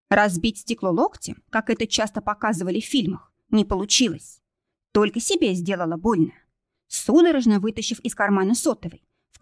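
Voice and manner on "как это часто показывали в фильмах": ordinary delivery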